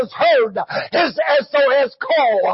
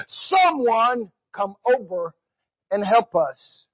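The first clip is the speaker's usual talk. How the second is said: slow plea, dropping low at the end; preacher's hushed, drawn-out appeal; pleading cry; 4 semitones lower, 4 dB quieter than usual. Retold or imitated. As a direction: let the plea for help sink away slowly. Voices the cry for help.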